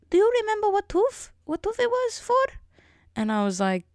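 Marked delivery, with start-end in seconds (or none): 0.1-2.4 very high put-on old-lady voice; elderly Romanian dentist. Dentist asks patient which tooth needs filling, high squeaky impression. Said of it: "she talks like this".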